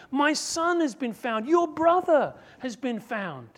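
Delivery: high, loud, eager calling in; father's joyful shouted invitation; pleading invitation. Acted. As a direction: urge them in to the party. Pastor voices father inviting Pharisees.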